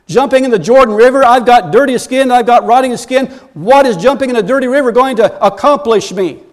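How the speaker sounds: ticked off. Acted. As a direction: object hotly to a ridiculous order. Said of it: "he's ticked off by the prescription".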